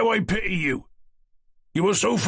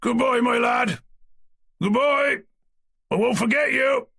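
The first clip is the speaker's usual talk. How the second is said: shouted farewell; 13 semitones higher than usual. A narrator's reading. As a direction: call after the departing cart. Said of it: "shouted Eroshka".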